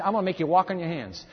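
quick, gleeful threat from the devil; fast devil taunt. Retold or imitated. The devil taunting humankind, fast and gleeful. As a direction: rattle it off as the scheming devil. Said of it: "he said".

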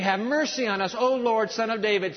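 high pleading call; crying out. Acted. Blind men calling above the crowd, crying out. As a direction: call over a noisy crowd. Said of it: "cried out all the more over the noise of the crowd".

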